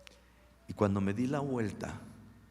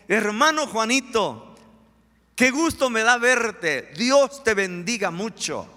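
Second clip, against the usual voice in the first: smiling greeting; 10 semitones higher, 10 dB louder, slower than usual. Acted. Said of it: "le pongo una sonrisa y le digo".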